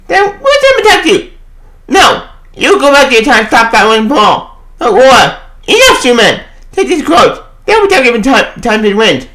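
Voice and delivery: a lightly voiced heroic character; comic character voice. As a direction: play the hero commanding the others. Voicing comic characters in recap.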